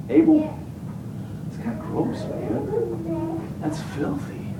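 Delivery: high squeaky voice of a squeamish bystander; mock disgusted onlooker. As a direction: sneer at the bloody lamb in a thin falsetto. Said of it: "you'd be like".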